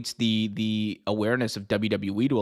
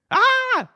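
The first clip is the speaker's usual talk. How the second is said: short, very high, loud yelp; sudden high-pitched shriek; excited fan scream; 5 dB louder than usual. Real, not acted. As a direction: squeal with fannish delight. Fan exclaims after the clip.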